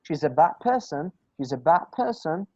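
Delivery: "bad person" joined as "bab person"; no stop between "bad" and "person"; linked consonants. Shown as a demonstration. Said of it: "just gonna move it fast".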